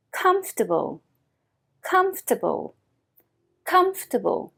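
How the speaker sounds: comfortable compressed, kumf-tuh-bl; comfortable said tight, syllables dropped; model for repeating. Shown as a demonstration. Teacher modelling for students to repeat, compressed. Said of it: "Répétez".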